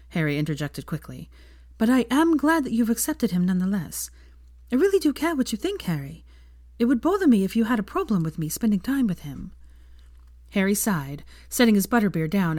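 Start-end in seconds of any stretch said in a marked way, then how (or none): 1.8-9.5 put-on higher, sincere young woman; Hermione, earnest and caring. Hermione voiced in story.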